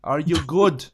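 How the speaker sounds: hammed-up foreign-accented greeting; countrymen's accented English. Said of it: "people in my country usually sound like".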